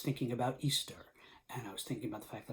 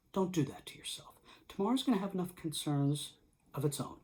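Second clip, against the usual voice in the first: gentle comfort; 3 semitones higher than usual. Acted. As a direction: speak it like a calm hand on the shoulder. Voicing Jesus' comforting words.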